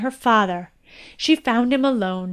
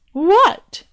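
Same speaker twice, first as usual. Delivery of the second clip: amused king; 7 semitones higher, 4 dB louder than usual. Acted.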